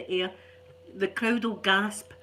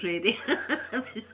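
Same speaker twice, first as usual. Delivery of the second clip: laughing. Real, not acted. Laughing about kicking penguin.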